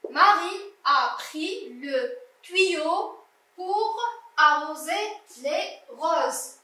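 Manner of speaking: slow, word-by-word reading; teacher's slow, spaced-out reading; slow model reading. Shown as a demonstration. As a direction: read it slowly for a beginning reader, pausing between words. Models reading the sentence for pupils.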